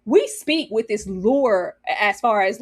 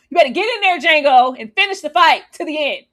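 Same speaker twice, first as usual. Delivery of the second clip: egging on; 4 semitones higher, 6 dB louder than usual. Retold or imitated. Urging the fighter on.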